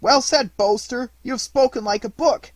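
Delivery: very loud, high jeering shout; mocking howl. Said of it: "howled the young rascals, convulsed with mad laughter".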